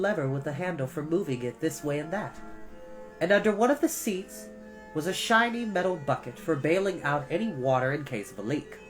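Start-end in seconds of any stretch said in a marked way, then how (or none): none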